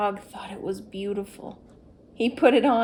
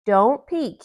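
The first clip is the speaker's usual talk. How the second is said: warning; 2 semitones higher, 10 dB louder than usual. A narrator's reading. Toad warns Frog.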